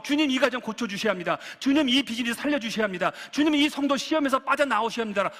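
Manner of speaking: re-enacted prayer, insistent and building; earnest pleading prayer. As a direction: plead with the Lord for others, without audible tears. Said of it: "기도를 하면서 내가 울고 있습니다". (간절히 매달리는 기도)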